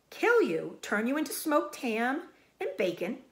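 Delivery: loud, high blunt sheep; old sheep voice. Acted. Old sheep describing slaughter to Wilbur, loud. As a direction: spell it out harshly.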